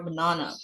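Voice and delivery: banana with a long AH middle; British "banana", middle vowel as in "father"; British pronunciation. Shown as a demonstration. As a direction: say banana as buh-NAH-nuh, British style. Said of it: "banana adalah British".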